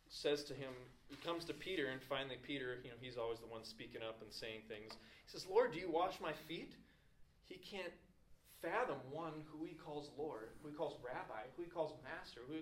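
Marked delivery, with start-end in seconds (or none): 5.5-6.7 louder, higher, acted disbelieving question; incredulous. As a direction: Peter stunned, pitch jumping on the question. Acts out Peter's disbelieving question.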